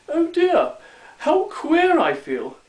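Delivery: high-pitched dismay of a little gnome; alarmed dismay. Acted. Little gnome to himself after eating gooseberries, in alarmed dismay.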